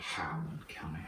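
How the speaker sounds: Highland County with the H hit hard, in a lightly put-on local accent. Savoring a county name for friends, in a lightly put-on local accent. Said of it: "fun to hit in that accent".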